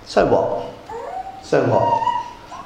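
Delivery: squeaky high "so what", rising; mock indifference. Preacher mocking trivial choices in a high squeak. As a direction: toss it off in a silly high voice.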